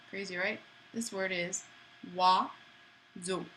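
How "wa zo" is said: syllable by syllable. Shown as a demonstration. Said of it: "Syllable by syllable".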